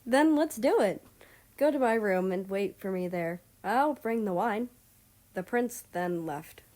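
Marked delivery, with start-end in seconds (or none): 0.0-4.7 eager command. Acted. America eagerly giving orders.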